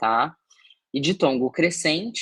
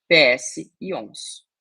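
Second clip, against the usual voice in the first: slow spelling out; 3 semitones higher, 4 dB louder, slower than usual. Shown as a demonstration. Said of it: "seguido não de S".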